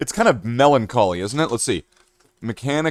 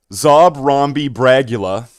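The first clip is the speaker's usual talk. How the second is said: mock mangled name; 6 dB louder, slower than usual. Mangling banned song names.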